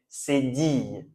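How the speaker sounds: "Cédille" slowly, as sé-diye; careful pronunciation. Shown as a demonstration. Teacher repeating the new term for learners, careful pronunciation. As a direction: say "Cédille" slowly with a final y glide. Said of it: "On prononce cédille".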